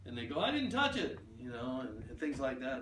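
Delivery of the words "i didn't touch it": much higher, squeaky protest; imitating a startled customer; defensive denial. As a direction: plead innocence in a high voice. Customer denying knocking things over.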